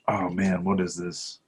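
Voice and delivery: usual speaking voice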